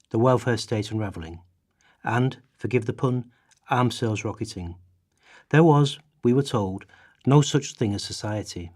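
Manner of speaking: a charged, indignant reading of a passage; impassioned reading of a quoted passage; dramatic reading. Acted. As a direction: read it like an angry polemic, building. Reads Hoyle's text aloud.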